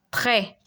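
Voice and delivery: "Très" said as treh, final S silent; French open E. Shown as a demonstration. Teacher repeats the word after the rule, careful French pronunciation. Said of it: "gives it an E sound".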